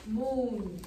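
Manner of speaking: "Moon" punched loud with a falling end; accented moon. Shown as a demonstration. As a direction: hit "Moon" hard like an accent mark. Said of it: "every single time you say moon, we're gonna do that".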